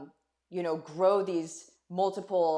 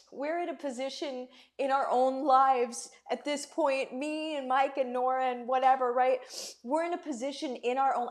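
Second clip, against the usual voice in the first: higher voice, fighting real tears; tearful; 5 semitones higher than usual. Real, not acted. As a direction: push on while close to crying. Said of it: "didn't mean to come on and cry".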